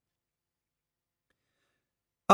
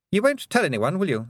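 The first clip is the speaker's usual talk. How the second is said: higher, anxious begging; nervous plea; 9 semitones higher than usual. A narrator's reading. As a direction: ask it nervously, voice up. Roland begs her silence.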